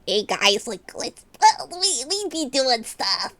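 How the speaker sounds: soft, strangled self-parody, slowing at the end; exaggerated own voice. Shown as a demonstration. Streamer demonstrating how they emphasize words, exaggerated self-parody. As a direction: squeeze out an over-emphasized streamer greeting. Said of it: "how I emphasize my voice".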